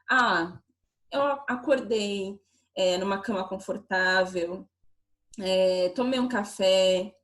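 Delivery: slow, low thinking aloud; mild pensive self-talk with drawn-out words; musing recollection. Acted. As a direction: think back step by step, unhurried. Acting out thinking back over her morning.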